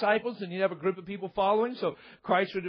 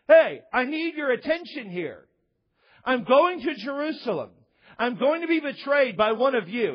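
louder, higher earnest announcement; Christ announcing; 4 semitones higher, 4 dB louder than usual. Retold or imitated. Christ telling disciples of his fate, louder and higher. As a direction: tell them firmly what is coming. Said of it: "we would say it this way".

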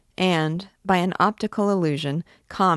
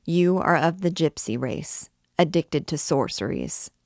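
solemn pronouncement, voice slightly raised. A narrator's reading. President formally charging the gypsy girl, solemn. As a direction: read out the charge with measured solemnity. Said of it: "raising his voice solemnly as he said".

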